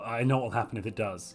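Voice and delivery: a low, secretive whisper. Real, not acted. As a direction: lean in and whisper it under the breath. Aside after the king vote.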